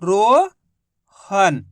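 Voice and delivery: रोहन stretched very slowly as one blended word; drawn out blend. Shown as a demonstration. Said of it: "तो मिलके बन गया".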